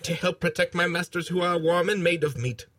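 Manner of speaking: robot voice spoken into a cup. Shown as a demonstration. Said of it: "robot voice technique number one ... speaking into a cup".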